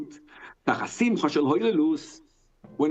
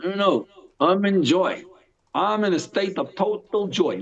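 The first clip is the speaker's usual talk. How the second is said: slow, raised-pitch avowal of joy; insistent joy; 4 semitones higher, slower than usual. Acted. Rabbi Akiva answering those who doubt his joy, insistently joyful. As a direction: draw it out, lightly playing serene conviction. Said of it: "He's like".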